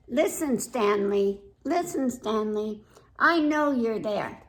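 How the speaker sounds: put-on mildly huffy little girl talking to Stanley; lightly voiced little girl. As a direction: read it as a pouting child who won't play. Girl character speaking to Stanley.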